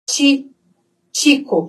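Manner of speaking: "Ti" and "Chico" both starting with tch; Spanish CH. Shown as a demonstration. Teacher explains CH, tch sound in "Chico". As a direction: say the tch first, then "Chico". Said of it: "eu vou pronunciar como T".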